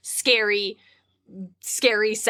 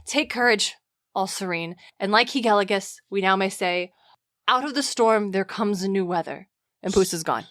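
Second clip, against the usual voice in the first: Xanthias, the sly slave, teasing. Acted. Reading Xanthias to the frightened Dionysus, hammed-up and excited. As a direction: play the servant spooking his master for fun.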